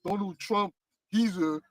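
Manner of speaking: mock American accent. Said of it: "I gotta do my American accent now".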